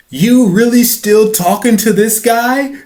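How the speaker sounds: high, slow, loud mock disbelief; teasing Jon Hamm. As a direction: drag it out, mocking.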